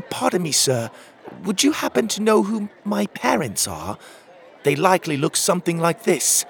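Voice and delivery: put-on high-pitched, earnest little boy; polite young boy. A narrator's reading. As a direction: ask a grown-up politely in a child's high voice. Boy politely asks a stranger.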